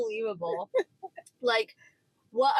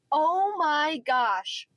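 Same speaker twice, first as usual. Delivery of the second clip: stunned; 4 semitones higher, 3 dB louder, much slower than usual. Retold or imitated. Shocked at snakes in store.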